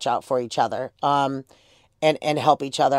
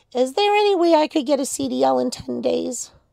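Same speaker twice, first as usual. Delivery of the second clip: put-on tiny, high, little mousy kid's voice; 10 semitones higher than usual. Recalling a kid who phoned asking about getting a CDL, little mousy voice. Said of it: "with this little mousy voice".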